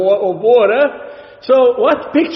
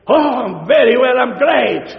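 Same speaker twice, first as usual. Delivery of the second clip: overenthusiastic answer; 3 semitones higher than usual. Retold or imitated. Mocking an overly cheerful answer.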